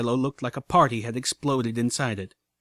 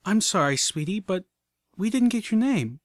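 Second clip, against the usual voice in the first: Velvet calling out; 8 semitones higher than usual. Acted. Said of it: "Velvet called out".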